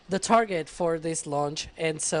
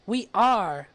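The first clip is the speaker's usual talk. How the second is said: excited announcement. Acted. Announcing go like a broadcast.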